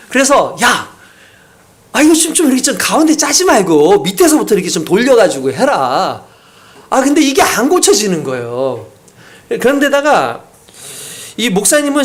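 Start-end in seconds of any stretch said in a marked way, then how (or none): 0.6-6.2 louder nagging husband voice; scolding husband. Retold or imitated. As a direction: nag her about the toothpaste. Husband scolding wife over toothpaste. (잔소리하는 남편)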